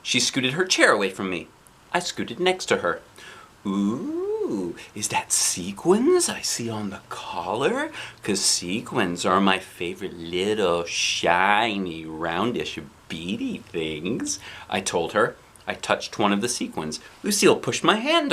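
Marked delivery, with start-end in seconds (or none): 3.7-14.4 sugary sweet-talk. Acted. Sweet-talking Lucille.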